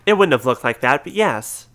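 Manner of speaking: put-on a light semi-British accent; a hint of a British gentleman detective. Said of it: "I gave this guy a British accent".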